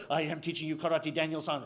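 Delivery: low, soft, unruffled master; sensei. Acted. Sensei answering the complaining student, low and calm. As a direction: answer low and quiet, unmoved. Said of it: "So he complains to Sensei".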